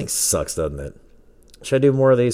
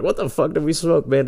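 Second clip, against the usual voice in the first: stoned disbelief; 9 semitones higher than usual. Retold or imitated. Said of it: "we're like".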